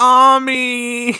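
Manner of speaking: high, loud fake crying wail; mock wailing. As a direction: wail her friend's name in mock tears. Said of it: "Minako starts crying".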